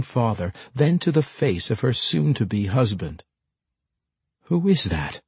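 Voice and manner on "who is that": agitated. A narrator's reading. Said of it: "asked in obvious agitation".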